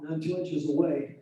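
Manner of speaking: muffled underwater echo on the line. Real, not acted. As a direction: sounds like talking underwater in an echo cave. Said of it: "it sounds like you're underwater and you're in some kind of echo cave".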